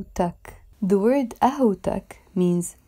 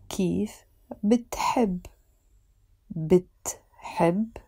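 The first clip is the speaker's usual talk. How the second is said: whispered model. Shown as a demonstration. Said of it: "teacher whispers model".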